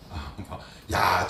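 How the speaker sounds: usual speaking voice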